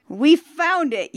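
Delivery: high, slow storybook gasp of discovery. A narrator's reading. Reader voices the treasure finder at the chest, gasping. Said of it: "you gasp".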